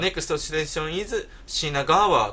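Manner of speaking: slow, stilted announcer English ending in a broken "品川"; announcement imitation. Complaining about the announcer, slow stilted English. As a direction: parody the English train announcement. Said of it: "わざわざこっちが片言に寄せてんの".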